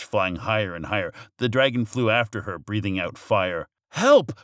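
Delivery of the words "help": high, loud yelp; sudden high-pitched, loud plea; witch's cry for help. A narrator's reading. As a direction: call for help in storybook alarm. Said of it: "cried the witch".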